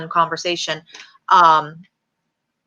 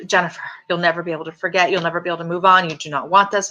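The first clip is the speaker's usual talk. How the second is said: mother's rhetoric; faster than usual. Retold or imitated. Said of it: "the rhetoric of".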